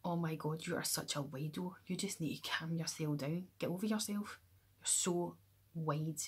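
normal talking voice

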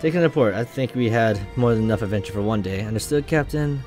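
lightly acted crew dialogue; light dramatic read of captain and crew; game dialogue read aloud.

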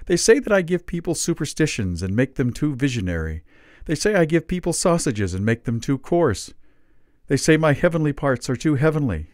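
put-on a fretful old man complaining he is unwanted; high plaintive old man. A narrator's reading. Old man complains to the narrator, high and aggrieved.

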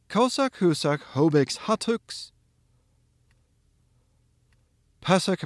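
groups of words with long pauses after each; strung-together drill. Shown as a demonstration. Teacher stringing the drilled pieces together, chunk by chunk. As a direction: link the pairs into longer chunks, pausing for repetition. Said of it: "let's string these together".

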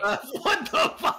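high, laughing disbelief. Real, not acted. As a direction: laugh out the words in shock. Shocked at a vote reveal.

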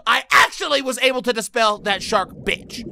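usual speaking voice

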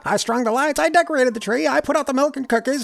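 high, loud fed-up outburst; shouted. Acted. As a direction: let it all out in one angry list. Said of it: "and shouted".

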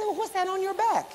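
a touch of surprise; Billy Joe. Retold or imitated. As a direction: friend calling out on the road. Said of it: "He said".

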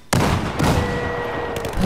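long resigned sigh. Real, not acted. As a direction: let out a drawn-out sigh. Sighs after dying in game.

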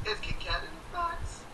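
high, sing-song mock recital; playful high chant. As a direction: recite it like a silly children's rhyme. Finishing the silly recital.

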